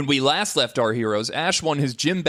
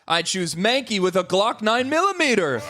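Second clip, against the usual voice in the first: gym leader voice; 8 semitones higher than usual. Acted. Gym leader picks Pokemon.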